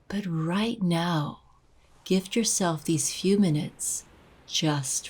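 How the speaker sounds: unhurried guided meditation voice, long pauses between phrases. Acted. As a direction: gently guide the listener into breathing and release.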